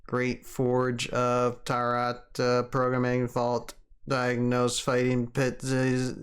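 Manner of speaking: slow, even machine voice; glitching robot error readout. Pretend. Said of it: "You gotta do the robot voice".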